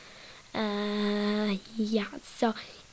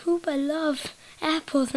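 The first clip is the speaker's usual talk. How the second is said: Hoopa voice; 5 semitones higher, slower than usual. Retold or imitated. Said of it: "he's like".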